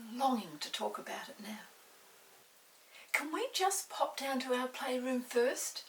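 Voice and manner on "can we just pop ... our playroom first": put-on higher, louder eager boy asking. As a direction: plead to run off and play. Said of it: "asked Peter".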